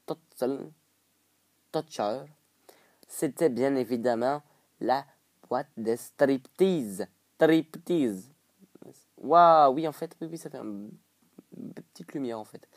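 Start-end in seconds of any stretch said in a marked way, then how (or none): 0.0-8.3 mock Québécois, vowels rounded and twisted; playful French-Canadian twang; put-on Québécois accent. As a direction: try out the words in Canadian French. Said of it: "je prends un accent comme ça".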